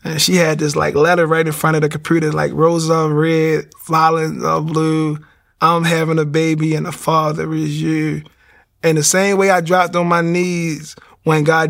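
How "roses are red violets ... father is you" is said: slow, sing-song poem reading; reciting a poem. Retold or imitated. Reading his wife's baby-news letter aloud, slow sing-song. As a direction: read it like a little rhyme card.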